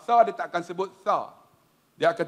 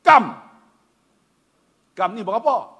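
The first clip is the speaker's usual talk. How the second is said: asking the price; 3 semitones higher, 6 dB louder than usual. Retold or imitated. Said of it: "Dia baru belajar tiga bulan".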